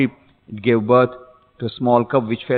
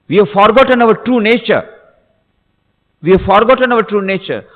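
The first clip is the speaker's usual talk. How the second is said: high, loud, emphatic proclamation; impassioned preaching; 8 semitones higher, 5 dB louder than usual. Real, not acted. Preacher telling listeners of their forgotten nature, impassioned. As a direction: drive the moral home in a raised voice.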